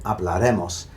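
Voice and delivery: hablaremos stressed on the second-to-last syllable, re; hablaremos, with the final mos unstressed; regular stress pattern. Shown as a demonstration. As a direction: lean on re in hablaremos. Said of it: "follows the regular pattern of accentuation".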